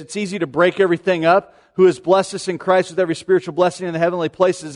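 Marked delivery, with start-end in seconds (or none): 1.8-4.7 quick, run-together scripture reading; brisk single-breath phrase; one unbroken thought. Shown as a demonstration. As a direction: read it straight through without breaking it up. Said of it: "That's all one thought".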